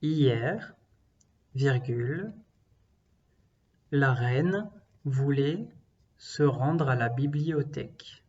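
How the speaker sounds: slow, clear dictation voice; dictating. Shown as a demonstration. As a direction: spell out each chunk for the class. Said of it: "Je vais commencer à dicter".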